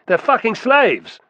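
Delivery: high, loud sneering scorn; vicious. A narrator's reading. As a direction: sneer with venom. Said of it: "said the one-eyed man viciously".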